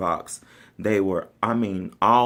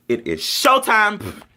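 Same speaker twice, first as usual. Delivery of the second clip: slow, high showtime call; showtime announcement; 10 semitones higher, slower than usual. Retold or imitated. Drum major psyching up for the field, slow showman call. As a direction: announce it like the curtain's going up.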